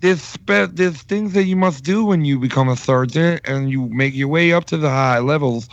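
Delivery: lightly lisping impersonation; impression with a slight lisp. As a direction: imitate him with a touch of a lisp. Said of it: "I was imitating him like crazy".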